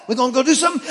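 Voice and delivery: high, loud, eager dog voice; excited dog voice. Retold or imitated. Dog asking its owner if they're going somewhere, high and eager. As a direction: bounce with excitement like a puppy. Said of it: "he's like".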